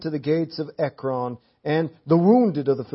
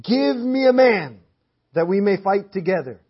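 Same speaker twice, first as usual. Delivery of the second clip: Goliath's challenge; 2 semitones higher, 4 dB louder than usual. Retold or imitated. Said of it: "Goliath cries out".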